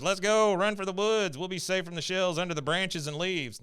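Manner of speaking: hammed-up dash for cover; urgent mock rallying. Dale urges friends into the woods, urgent and high. Acted panicky call to flee.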